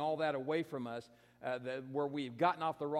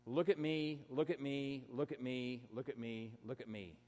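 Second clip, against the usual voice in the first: a mock plea for attention, dying away; a mocking chant that trails off to almost nothing; mocking look at me; 3 semitones lower than usual. Mocking attention seekers, fading out.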